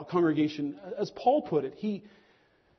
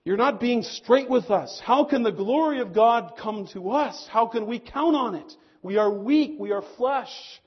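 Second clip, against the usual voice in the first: louder, higher challenging voice of doubters; doubting exiles; 5 semitones higher, 7 dB louder than usual. Retold or imitated. Jews in Babylon challenge Isaiah, mild mock protest. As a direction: throw the doubt back at the prophet. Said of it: "the Jews in Babylon could have said".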